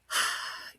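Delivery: weary unvoiced sigh. Podcaster recalling missing dog, weary sigh. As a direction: let out a heavy breath. Recalls feeling too upset to record.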